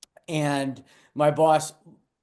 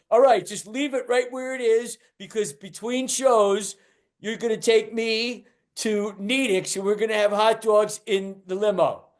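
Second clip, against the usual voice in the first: club owner scheming; 5 semitones higher than usual. Retold or imitated. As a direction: savour the hot dog idea. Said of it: "And he goes".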